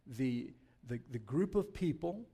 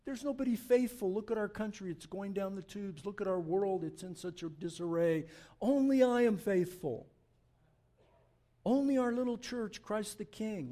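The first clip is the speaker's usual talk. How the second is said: higher pitched, self-pitying grumble; mock whine, Elijah grumbling to God; whining complaint; 4 semitones higher than usual. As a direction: complain like everything is lost. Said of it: "he's whining, he's crying, he's complaining".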